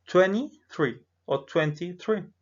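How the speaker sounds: "twenty-three" slowly, first without the T, then with it; "twenty-three" in both styles; two variants. Shown as a demonstration. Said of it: "Entonces pronuncio".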